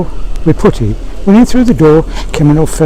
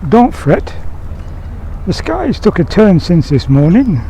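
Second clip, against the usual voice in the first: unworried Sam; 4 semitones higher, 5 dB quieter than usual. Acted. Nearly drowned Sam shrugs off flood.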